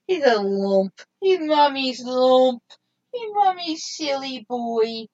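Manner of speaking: slow, sweet cooing over a pet. Real, not acted. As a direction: coo fondly at a beloved dog. Fond words about her dog.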